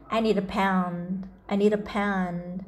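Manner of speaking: slow, clear model sentence; slow model reading. Shown as a demonstration. Teacher reads slowly for children to repeat. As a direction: spell it out slowly for the kids. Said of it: "slow model reading for learners".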